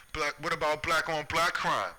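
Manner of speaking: mocking screamer. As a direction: parody the people jeering it. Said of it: "people screaming".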